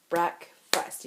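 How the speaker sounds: breakfast dipecah per suku kata; syllables clapped out. Shown as a demonstration. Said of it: "breakfast would have two syllables".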